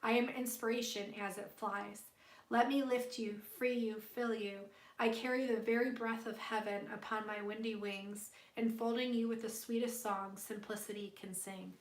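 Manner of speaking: gentle, lilting poem recital; poem reading. Acted. Streamer reading a tarot poem aloud to Michelle, gently recited. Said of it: "that was your poem".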